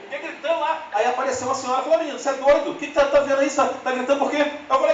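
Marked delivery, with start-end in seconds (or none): 2.0-4.5 mild scolding lady. Retold or imitated. Old lady scolding the boy.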